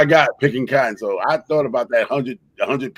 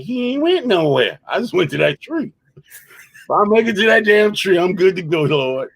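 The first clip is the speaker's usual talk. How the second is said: mock frantic plea; 7 semitones higher than usual. Imagined slave running to tree.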